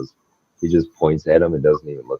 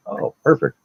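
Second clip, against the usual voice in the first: gleeful; 13 semitones higher than usual. Retold or imitated. Repo man delighted by threat.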